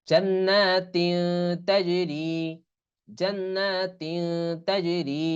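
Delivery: very slow, stretched recitation; Quran recitation. Shown as a demonstration. Teacher recites the example verse slowly for students. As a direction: chant slowly with held ghunna. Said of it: "তা জিম জবর তাজ".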